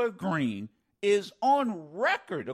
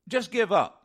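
mocking Greene; 4 dB louder than usual. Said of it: "The Ukrainian people ought to just give up".

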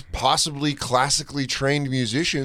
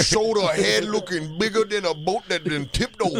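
put-on Creole accent; 5 semitones higher than usual. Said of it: "super Creole".

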